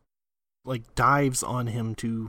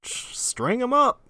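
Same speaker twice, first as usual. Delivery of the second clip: angry mob leader; 12 semitones higher, 5 dB louder than usual. Retold or imitated. Mob wanting him dead.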